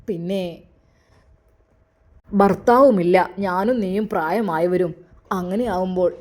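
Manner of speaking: put-on an elderly father weighing his words; elderly father-in-law. In-laws voiced in story. (താഴ്ന്ന ശബ്ദത്തിൽ പ്രായമായ അച്ഛൻ)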